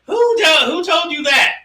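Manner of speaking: sudden high mock shout; hammed-up alarmed outburst at the child; imitating an alarmed demand. She confronts who taught rhyme.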